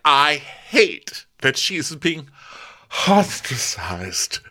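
high, loud, slow mock distress; hammed-up tearful outrage; imitating Candace upset. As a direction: wail it like you're about to cry. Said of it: "Candace is like".

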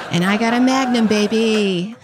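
swaggering mock boast; hammed-up swagger on baby; cocky brag. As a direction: brag like a smooth guy. Bragging punchline voice.

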